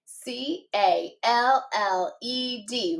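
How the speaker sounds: letters tapped out slowly one by one; slow spelling. Shown as a demonstration. Teacher modelling spelling for students, slow tapped letters. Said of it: "One more time".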